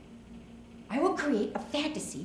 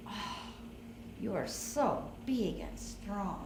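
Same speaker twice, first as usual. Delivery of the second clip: flattering coo; 2 semitones lower, 9 dB quieter, slower than usual. Shown as a demonstration. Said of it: "that's when you say it".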